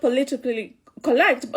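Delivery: "politically correct" in a light Kikuyu accent, vowels flattened; a touch of Kikuyu accent on "politically correct". Real, not acted. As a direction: let "correct" slip out Kikuyu-style, as "co-lect". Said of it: "that's my Kikuyu accent coming out".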